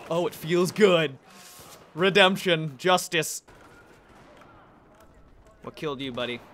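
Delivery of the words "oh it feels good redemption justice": louder, slower savouring gloat; loud relish. Real, not acted. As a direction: savour the revenge aloud.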